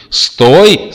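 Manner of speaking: высокий громкий визгливый крик; завизжать, останавливая; визг. A narrator's reading. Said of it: "завизжали из ящика". (пронзительный визг)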